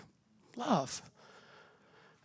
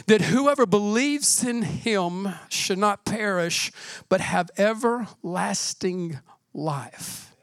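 slow scripture reading; 2 semitones lower, slower than usual. Acted. Preacher reading the promise of eternal life: slow, gentle. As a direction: read it slowly, gently, as a promise.

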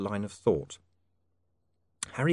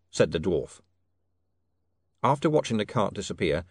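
plain reading voice

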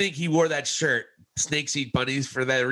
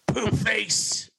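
unvoiced teasing whisper of an insult; mock whisper; 6 semitones higher than usual. Co-host whispering a childish insult at his partner, mock whisper. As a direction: hiss the insult under your breath.

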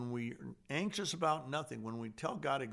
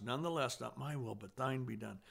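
calm surrender; 4 dB quieter, faster than usual. Retold or imitated. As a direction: let go and accept quietly. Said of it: "Boom, peace comes".

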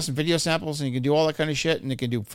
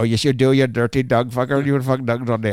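loud taunt; 2 semitones lower, 4 dB louder than usual. Retold or imitated. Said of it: "I go".

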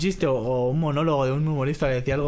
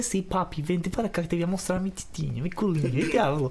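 put-on Brazilian accent; 4 semitones higher, 3 dB quieter than usual. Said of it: "te dice".

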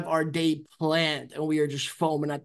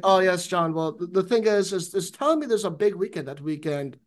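mock British landlord; lightly put-on British accent. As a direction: attempt a shaky amateur British accent. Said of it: "I don't know if that's a British accent".

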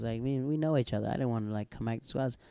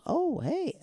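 squeaky, much higher mock "oh, hey"; high surprised greeting. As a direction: imitate her startled greeting. Girlfriend greets surprised stranger.

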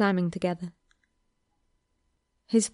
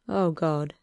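soft whimper; 3 semitones lower than usual. A narrator's reading. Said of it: "he whimpered softly through his nose".

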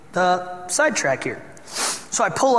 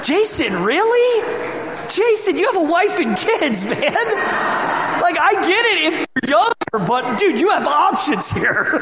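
mock scolding; 10 semitones higher, 3 dB louder than usual. Real, not acted. Teasing a congregant about Taco Bell.

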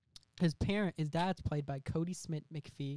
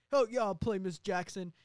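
eager musician; 4 semitones higher, 3 dB louder than usual. Acted. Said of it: "Miss Vaughn's like".

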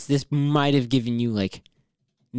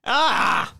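startled; 10 semitones higher than usual. Real, not acted. Reacting to a creepy picture.

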